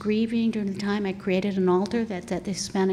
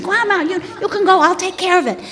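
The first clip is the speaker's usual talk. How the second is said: emotional plea; 10 semitones higher, 10 dB louder than usual. Retold or imitated. Telling dying mother to go.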